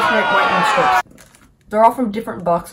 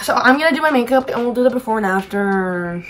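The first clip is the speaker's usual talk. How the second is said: talking around whitening strip; tags: teeth strips on. Real, not acted. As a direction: lips kept off teeth. Seen 1: Lips held off teeth; strip glimpsed earlier, timer running now.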